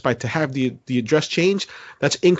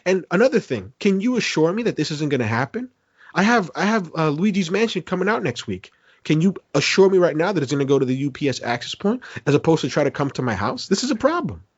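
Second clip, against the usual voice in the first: mock threatening; 4 semitones higher than usual. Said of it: "I started threatening".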